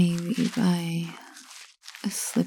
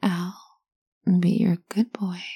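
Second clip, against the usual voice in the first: whispered mantra. Shown as a demonstration. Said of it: "you're going to repeat to yourself".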